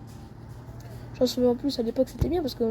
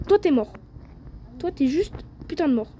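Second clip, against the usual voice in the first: excited taunt; 7 semitones higher, slower than usual. Real, not acted. Streamer taunting enemy, escalating.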